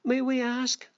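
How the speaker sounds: questioning ants. Acted. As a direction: ask as the disapproving ants.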